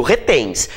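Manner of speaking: "retens" with the weight on TENS; stress on last syllable. Shown as a demonstration. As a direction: keep re light and land on TENS in "retens". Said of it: "a sílaba tônica é o tens".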